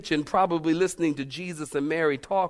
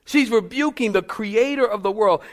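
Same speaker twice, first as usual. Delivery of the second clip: louder repeat; 5 semitones higher, 4 dB louder than usual. Shown as a demonstration. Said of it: "You might wanna write this down".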